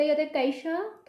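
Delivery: कैसा with a clear ai glide, kai-sa; ai sound shown. Shown as a demonstration. Teacher shows pupils the ai sound, careful. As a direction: stretch the ai in कैसा. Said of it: "थोड़ा सा ऐसा बोला जाए कैसा".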